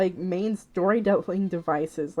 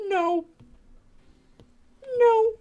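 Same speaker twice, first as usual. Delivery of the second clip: rising, louder mocking no; mock refusal; 13 semitones higher, 4 dB louder than usual. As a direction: throw out a high indignant no, no. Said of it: "we just were like".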